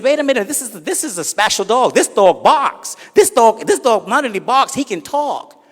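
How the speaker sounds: high, pleading, building excitement; high excited pleading. Acted. Guy pleads for dog.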